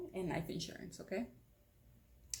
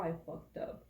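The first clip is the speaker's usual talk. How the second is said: whispered confession; 4 dB quieter than usual. Retold or imitated. Retelling his quiet confession.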